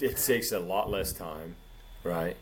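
words around a sip of beer; while sipping a drink. Real, not acted. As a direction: talk while drinking from a can. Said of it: "That's Pacifico right there".

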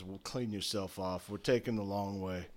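low, soft order; understated dismissive instruction; dry command. Acted. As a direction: mutter the order coolly to the servant. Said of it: "and he says".

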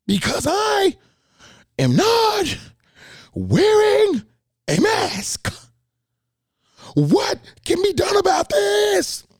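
very high, slow mock shriek of an angry customer; screaming customer. Caller screaming about being refused service, in a high mock shriek. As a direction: shriek it like an outraged lady in a falsetto. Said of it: "screaming on the phone".

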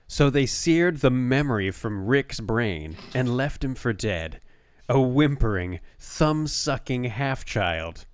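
measured, dramatic back-cover read; best reading voice. Shown as a demonstration. Co-host reads the book's synopsis aloud in best voice, dramatically. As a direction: read it like a trailer, pausing for weight. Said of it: "I'll read it in my best, uh, voice".

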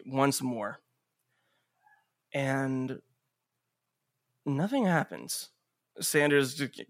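measured scene setting with dramatic pauses; game master narration. Acted. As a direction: narrate the action steadily, leaving space between beats.

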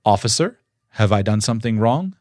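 calm, submissive and polite, even pace; polite calm question. Shown as a demonstration. Calmly and politely asking the officer a question. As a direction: ask it calmly, like a respectful citizen. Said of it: "Here's what you say".

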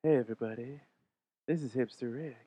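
lightly voiced radio host intro; a hint of a laid-back DJ; Enrique impression. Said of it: "do my best Enrique in front of Enrique".

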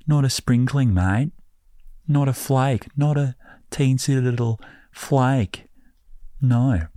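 high, indignant "not a flake"; mock exasperation. Listeners told England gets no snow, indignant and high.

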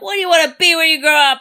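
fast, high, loud mock shouting; mock yelling at the recruits. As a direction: rattle it off like an aggressive guidance counselor. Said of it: "When he's yelling at everyone".

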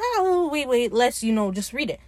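mock-eager, jumping in high then settling; lightly acted eagerness, starting high; eager interjection. Ed stalls Steve to read the invite, eager. Ed obviously wants to go.

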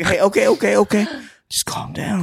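high, mock-panicked pleading; imitated jittery placating; freaking out. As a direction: play someone nervously talking down a threat. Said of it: "he's just freaking out".

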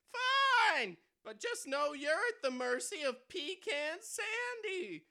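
loud, high robber yell; frantic shouting hostage taker. Acted. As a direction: bark it like a stick-up man. Robber names himself.

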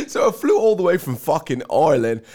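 hammed-up mock Irish guest; put-on Irish accent. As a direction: play the visitor with a bad Irish accent. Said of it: "someone here live from Ireland".

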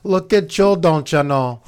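put-on high, playful Northern accent. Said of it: "bringing out that voice".

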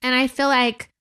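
crying while praising her husband; tearful. Real, not acted. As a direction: speak through real tears of pride. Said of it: "'cause I'm crying".

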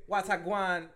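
Jamaican accent. Shown as a demonstration. Feeding co-host a line to repeat, mock Jamaican accent. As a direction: lightly model a Jamaican accent. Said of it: "the Jamaican one needs a little bit of work".

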